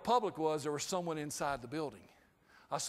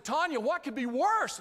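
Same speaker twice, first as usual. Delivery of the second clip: panicked plea; 6 semitones higher than usual. Retold or imitated. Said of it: "And I said".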